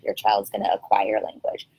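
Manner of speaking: retold line slipped in as a hushed secret; hushed aside. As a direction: drop to a confiding near-whisper mid-quote. Retold advice to parents, dropped low.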